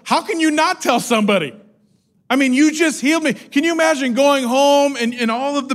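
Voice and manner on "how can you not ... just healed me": incredulous protest. Pretend. Speaker imagines being the healed man.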